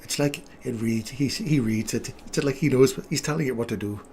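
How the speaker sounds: mock Canadian slipping into Irish; a hint of Irish in a put-on Canadian accent; Irish-sounding Canadian accent. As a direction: attempt Canadian, drift lightly into Irish. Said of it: "Irish now. It doesn't sound anything Canadian".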